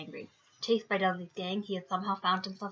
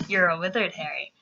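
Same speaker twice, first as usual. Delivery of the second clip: a hint of a gruff giant, louder; Hagrid impression; 3 semitones lower, 4 dB louder than usual. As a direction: lightly do Hagrid's big line. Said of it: "Hagrid being like".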